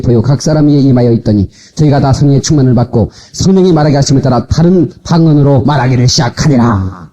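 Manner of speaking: 일정한 음으로 힘차게 성경 낭독; 회중을 이끌며 고른 가락으로 읽기. Real, not acted. 성경을 합독으로 낭독. (끊김 없이 힘주어 읽는 합독)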